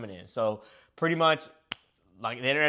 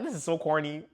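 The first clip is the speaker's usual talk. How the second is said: 1 laughing; 4 dB quieter than usual. Retold or imitated.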